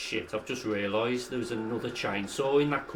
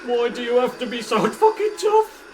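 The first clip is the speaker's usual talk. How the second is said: exasperated; 8 semitones higher, 6 dB louder than usual. Real, not acted. Enemy too tough.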